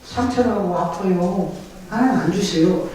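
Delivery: ordinary talk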